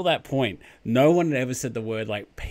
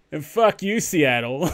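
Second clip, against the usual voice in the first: mock Ron Burgundy shout; 4 semitones higher, 7 dB louder than usual. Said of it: "Ron Burgundy said".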